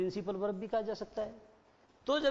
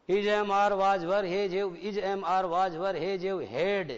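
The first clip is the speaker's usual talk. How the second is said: slow reading; 5 dB louder, much slower than usual. Shown as a demonstration. Teacher reads example sentence slowly.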